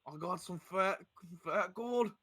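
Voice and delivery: a hammed-up oafish orc showing off his gold; dumb orc voice. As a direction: play the biggest dumbass orc, boasting. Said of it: "if I was playing an orc".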